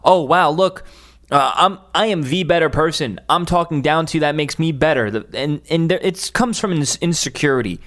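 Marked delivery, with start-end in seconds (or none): 0.0-5.1 smug mockery. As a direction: parody a smug man who thinks he's better. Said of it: "he's saying to himself".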